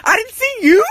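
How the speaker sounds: high, strained mock outburst; exasperated yelling, played for laughs; retold flipping out. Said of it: "I'm just flipping out".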